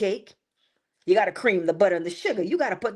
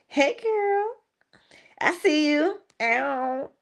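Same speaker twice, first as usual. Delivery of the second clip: much higher, rising; greeting a friend in chat, much higher; excited greeting; 8 semitones higher, slower than usual. Real, not acted. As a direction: squeal a hello.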